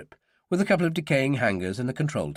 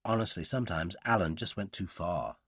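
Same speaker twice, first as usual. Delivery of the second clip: low, soft inner voice; hushed, reproving aside; private thought; 5 semitones lower, 9 dB quieter than usual. A narrator's reading. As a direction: think it to yourself, exasperated. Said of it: "Helen thought".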